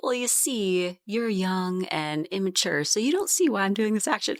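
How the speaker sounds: condescending, lecturing tone; mock-patronising parent explaining down; defensive parent. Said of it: "be defensive and be like".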